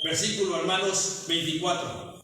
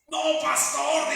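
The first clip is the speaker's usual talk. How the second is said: gentle correction; 5 semitones higher, slower than usual. Retold or imitated.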